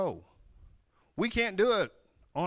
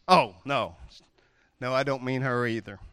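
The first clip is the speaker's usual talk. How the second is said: conspiratorial whisper, lower; whispered aside; 6 semitones lower, 5 dB louder than usual. Real, not acted. Preacher whispering a joking aside to the congregation. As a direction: let the room in on a secret.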